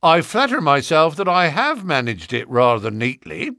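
self-satisfied boast; pleased with himself; proud. Acted. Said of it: "the detective answered proudly".

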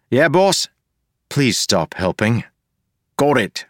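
a rough joker jeering at the mayor; cheeky Wayne. Acted. Wayne insulting the mayor to Wax, high mocking jeer.

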